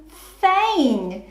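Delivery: fain said blended as one word. Shown as a demonstration. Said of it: "real word or nonsense".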